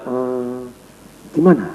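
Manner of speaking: soft, low, hesitant hum and reply; slow talker. Shown as a demonstration. Trainer testing a fast talker with a slow reply, low and soft. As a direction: act out an unhurried, quiet responder. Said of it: "Anda ngomongnya lambat".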